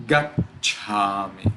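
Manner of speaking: gacchami slow, with a stop after gac; stuck on double consonant. Shown as a demonstration. Teacher summing up, gacchami with the double consonant held. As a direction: pause inside gacchami before chami. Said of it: "We must get stuck a little".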